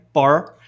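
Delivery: "par" with the R clearly articulated. Shown as a demonstration. Teacher isolating the R for students, articulated American R. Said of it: "você articula o R".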